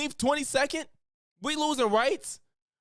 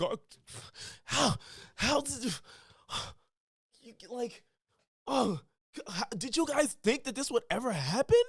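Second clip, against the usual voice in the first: mock disbelief; 4 semitones higher, 4 dB quieter than usual. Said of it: "and he's like".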